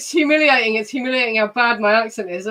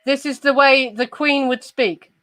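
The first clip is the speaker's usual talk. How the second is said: very posh, Queen-style English; refined upper-class English accent. Shown as a demonstration. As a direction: speak the way the Queen would. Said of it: "this is a very posh accent".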